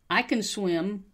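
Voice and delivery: "can" weakened to "kun"; reduced can. Shown as a demonstration. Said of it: "that can turns into kun".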